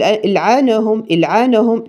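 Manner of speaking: العنهم with a wrong echo on the ن; wrong qalqala. Shown as a demonstration. Teacher imitating a recitation mistake. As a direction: add a bounce after the ن in العنهم. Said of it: "لا غلط".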